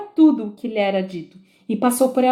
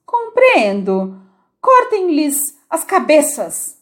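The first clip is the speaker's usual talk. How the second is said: cold verdict; 6 semitones higher, 4 dB louder, much slower than usual. Acted. Queen orders execution.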